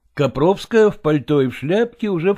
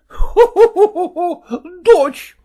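higher, louder fake rolling laugh; wife's unnatural peal of laughter; forced laugh; 6 dB louder than usual. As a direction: burst into a false laugh. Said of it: "раскатилась неестественным смехом Копровская".

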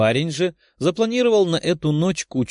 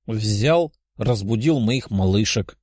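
grumbling; 3 semitones lower, slower than usual. Acted. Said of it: "проворчал парень".

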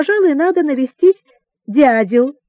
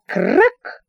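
sudden short crack, higher-pitched; spoken whip-crack sound effect; one sharp "krak" like a whip; whip crack imitation; 5 semitones higher than usual. A narrator's reading.

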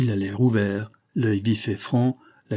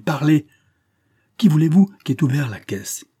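higher and louder, demanding shout; 5 semitones higher, 6 dB louder than usual. A narrator's reading. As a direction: shake the answer out of him. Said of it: "cria-t-il".

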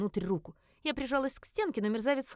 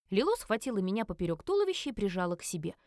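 usual speaking voice

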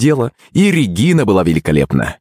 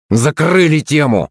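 curt, higher-pitched dismissal; sharp reply; 7 semitones higher than usual. A narrator's reading. Captain to his teammate, a sharp cutting reply. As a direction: shut it down sharply. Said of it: "резко ответил он".

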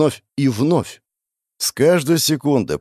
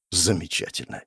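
smiling; 4 semitones lower, 8 dB quieter than usual. Acted. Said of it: "с улыбкой на лице".

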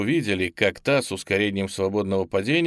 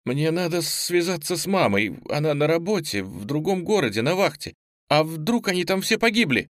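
put-on tearful girl pleading, voice pitched higher; crying; 7 semitones higher than usual. Girl to the teacher about her mother, tearful. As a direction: near tears, rising panic about her mother. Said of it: "сказала она и заплакала".

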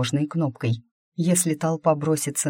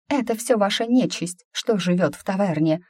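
angry woman; 5 semitones higher than usual. Acted. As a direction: burst out at the witch. Angry woman in crowd accuses.

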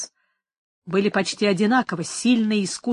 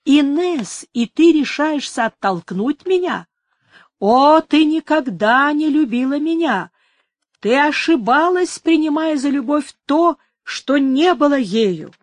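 higher, wounded lover's reproach; anguished cry; 5 semitones higher, 5 dB louder than usual. A narrator's reading. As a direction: cry out in hurt disbelief, raised pitch. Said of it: "вскричал Мануэль дрожащим голосом". (с болью и упрёком)

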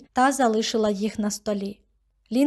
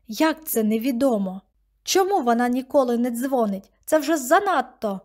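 put-on a girl exploding at her grandmother; outburst; 2 semitones higher than usual. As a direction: let it burst out of her. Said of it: "вибухнула дівчина".

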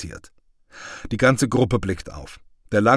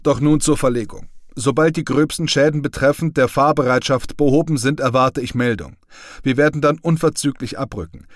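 an officer's crisp, raised briefing voice; a company commander briefing his men, louder and higher; commanding officer; 4 semitones higher, 5 dB louder than usual. Acted. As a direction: give orders to the company, firm and loud.

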